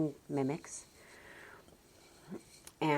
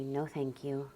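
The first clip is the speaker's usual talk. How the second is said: put-on calmly deflect a small child; gentle parent's no. Shown as a demonstration. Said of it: "in my gentle voice".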